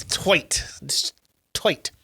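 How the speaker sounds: "toit" said with an oy sound for tight; playful mispronunciation. Shown as a demonstration. Co-host joking about the dad's butt, playfully saying "toit" for tight. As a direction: turn the vowel of tight into oy: "toit".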